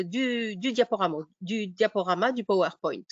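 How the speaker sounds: usual speaking voice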